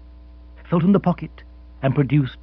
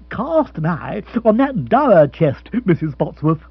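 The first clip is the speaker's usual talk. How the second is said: hearty Rory; 4 semitones higher, 4 dB louder than usual. Acted. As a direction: linger on it like a tour guide. Rory pointing out the chest.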